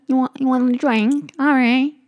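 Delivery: high, loud yell to Harry; shouting at Harry across a loud party; shouting a drink offer. Pretend. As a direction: bellow over the music.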